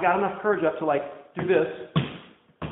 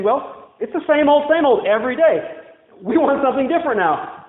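higher, louder whining about the manna; whiny complaint; 7 semitones higher, 3 dB louder than usual. Retold or imitated. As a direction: complain like spoiled children. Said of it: "they started saying".

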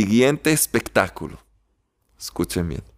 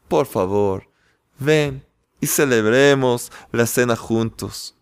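gently tender. Acted. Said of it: "con dulzura y gentilmente".

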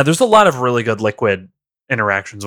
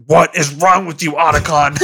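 Snake; 3 semitones higher than usual. Acted. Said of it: "He's like".

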